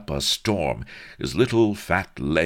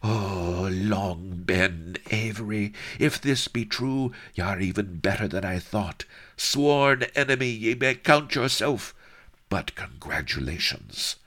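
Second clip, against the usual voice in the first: shaking with emotion; 7 semitones higher than usual. Acted. Sheba admits Avery bested her, higher shaken voice. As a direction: let the voice tremble. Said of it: "her voice shook with emotion".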